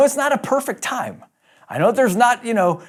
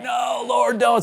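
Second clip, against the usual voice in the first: pleading; 6 semitones higher, slower than usual. Acted. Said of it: "So he's pleading with God now".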